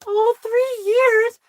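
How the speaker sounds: high, slow, drawn-out surprised question; mock surprise. Boss pretends to be impressed by three years, high and slow. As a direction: act wowed by three years.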